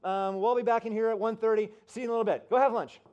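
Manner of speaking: loud, high announcement to a crowd; Rick Warren. Retold or imitated. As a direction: dismiss a whole room for lunch from the stage. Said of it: "Rick Warren's like".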